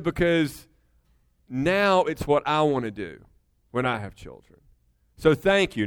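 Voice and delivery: sincere, low-pitched quote; heartfelt thanks. Retold or imitated. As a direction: pass on her thanks tenderly. Retells daughter's heartfelt thanks.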